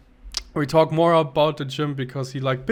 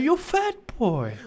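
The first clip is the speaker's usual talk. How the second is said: quoting the man; 9 semitones higher, slower than usual. Retold or imitated. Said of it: "pat my belly".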